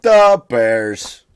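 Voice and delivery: loud Chicago superfan "Da Bears"; Chicago accent. Retold or imitated. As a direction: do a thick Chicago fan accent. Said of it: "these guys from Chicago".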